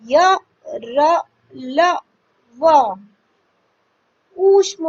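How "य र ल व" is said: each letter said slowly and separately, with pauses; teacher dictating the letters one by one; clearly listing letters. Shown as a demonstration. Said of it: "ये हमारे चार हैं". (अक्षरों को अलग-अलग साफ़ बोलना)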